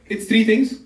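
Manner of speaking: "three" said as "tri", with Indian English sounds; Indian accent. Shown as a demonstration. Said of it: "That's how Indians speak".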